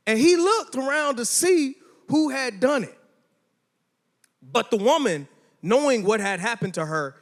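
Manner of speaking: reading the Bible aloud to the youth group; steady, measured scripture reading. Acted.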